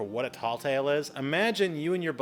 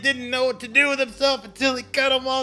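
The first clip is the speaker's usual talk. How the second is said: starts easy, then climbs higher and louder with each twist; building excitement; 8 semitones higher, 5 dB louder than usual. Acted. Teacher acting out a wild Paul Bunyan tale, getting more and more excited. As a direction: ramp up the hype until the big finish.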